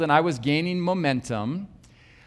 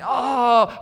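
higher-pitched groan of disapproval; disapproving groan; 6 semitones higher, 3 dB louder than usual. Retold or imitated. Woman in the audience objecting to the sermon, disapproving groan. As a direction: groan as if ill at what you hear. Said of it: "she would make those groaning sounds again".

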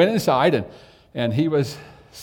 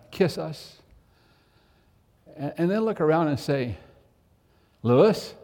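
pleading, raised and urgent; earnest plea. Retold or imitated. Dad pleading with his little brother Clarence to come back, earnest. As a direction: beg him from the heart.

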